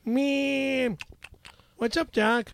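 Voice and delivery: wisecracking cartoon rabbit; drawn-out opener, then the cartoon catchphrase; Bugs Bunny. Shown as a demonstration. Host calls for cartoon voice, Bugs Bunny. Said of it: "Bugs Bunny".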